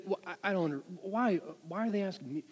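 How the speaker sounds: soft, grumbling mock mutter. Trooper questioning the dispatcher's call, muttering. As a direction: imitate an officer grumbling to himself. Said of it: "he just, he mutters".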